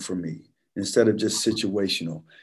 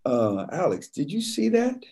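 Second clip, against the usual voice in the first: impersonating coach; 5 semitones higher, 4 dB quieter than usual. Retold or imitated. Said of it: "He was like".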